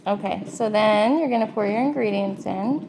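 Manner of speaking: talking with trays in; with whitening tray. Real, not acted. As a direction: teeth trays in mouth. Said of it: "so my voice is a little weird".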